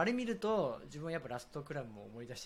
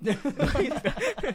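laughing; 13 semitones higher, 11 dB louder than usual. Real, not acted. Laughing echo of a question.

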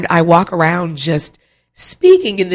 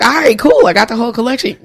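put-on breezy cool girl; 6 semitones higher, faster than usual. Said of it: "I'm that cool girl, so I'd be like".

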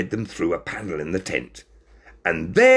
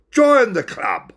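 tag; 6 dB louder, slower than usual. A narrator's reading.

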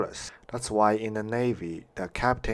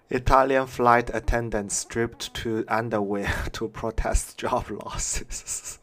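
laughing. Real, not acted.

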